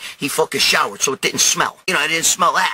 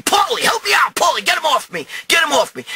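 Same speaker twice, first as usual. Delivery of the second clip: high-pitched retold yell; cry for help; 11 semitones higher than usual. Man pinned in a fight calls his friend for help, panicked.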